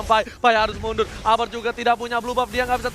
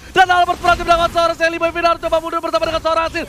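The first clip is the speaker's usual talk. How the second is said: excited; 5 semitones higher, 4 dB louder than usual. Real, not acted. Teamfight call continues.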